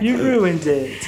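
slow, one word at a time; staccato. Acted. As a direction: space out each word. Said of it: "One word at a time".

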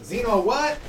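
mock puzzlement, rising at the end; baffled racist. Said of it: "seventy percent of racist people".

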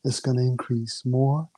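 slow, coaxing hypnosis patter; hypnotist voice. Acted. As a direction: lull her in like a stage hypnotist. Hypnotist keeps building the trance.

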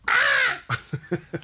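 high shrill gull squawk; seagull cry. Pretend. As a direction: screech it like a seagull. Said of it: "Think of the sound".

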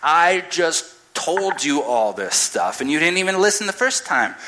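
an exasperated man losing patience; flipping out. Retold or imitated. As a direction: snap back, fed up and rising. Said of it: "He flips out".

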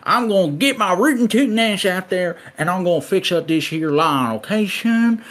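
hammed-up Southern country accent. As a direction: play a rootin' tootin' country dad. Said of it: "doing this accent now".

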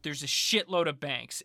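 slow, deliberate riddle answer; drawn-out detective reveal. Retold or imitated. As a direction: spell out the answer slowly as it clicks. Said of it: "And it's like".

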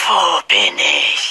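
langsam, schwach, verwirrt; benommen. Acted. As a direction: gerade aus dem Koma erwacht. Voldemort erwacht benommen. (schwache Stimme)

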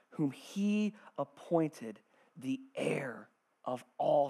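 slow, measured reading with long pauses; scripture reading. Acted. Preacher reading Hebrews to the congregation, slow and measured. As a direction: read it out gravely, letting each phrase settle.

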